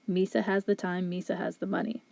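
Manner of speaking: flat robotic monotone. Shown as a demonstration. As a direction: read it like a robot. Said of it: "if we were to speak like a robot".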